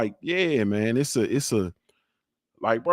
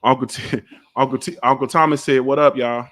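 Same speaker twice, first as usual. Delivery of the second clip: raised voice passing on a greeting; calling out; 5 dB louder than usual. Real, not acted. Dad calls out Uncle Thomas's greeting to the kids, calling out.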